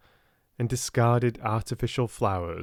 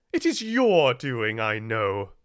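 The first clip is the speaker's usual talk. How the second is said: a touch of an accusing outburst; mild angry cry. Acted. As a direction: accuse her, lightly raised. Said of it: "she cried".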